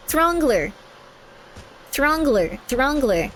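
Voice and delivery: "Throngler" with falling tune, plain pitch; "Throngler" said as fact, falling; settled pronunciation. Shown as a demonstration. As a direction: confirm "Throngler" flatly. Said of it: "I don't pronounce words".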